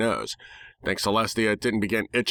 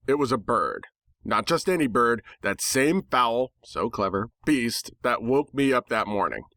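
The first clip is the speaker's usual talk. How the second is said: ordinary delivery, nothing marked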